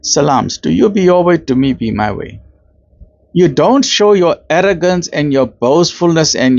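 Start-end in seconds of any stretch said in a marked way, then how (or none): 0.0-2.4 polite. Retold or imitated. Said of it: "you tell that person politely".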